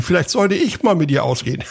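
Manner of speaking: teasing line that breaks into a laugh. Real, not acted. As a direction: chuckle through the tease. (lachend, neckend)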